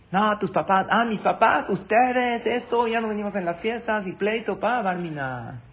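pitched high and loud, heated; imagined couple's quarrel, pitched high and loud; angry quarrel. Pretend. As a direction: blurt it out like a fight breaking out. Imagined family quarrel acted.

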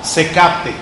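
very slow, every word separate; slow and clear. Shown as a demonstration. Teacher modelling unhurried speech, very slow. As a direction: spell out each word for the room. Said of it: "Eso es sumamente importante".

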